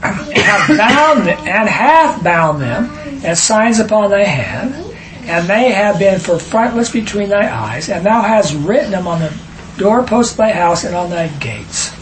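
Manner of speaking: solemn, measured reading of the Bible verse; scripture reading. Acted. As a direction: read it out like holy writ in church. Reads scripture aloud.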